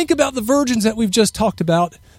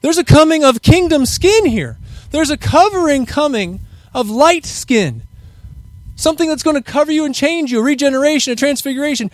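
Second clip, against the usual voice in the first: proclaiming to the people; 5 semitones higher than usual. Pretend. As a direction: call it out like a herald announcing the kingdom. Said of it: "we've gotta get the word out to those and say".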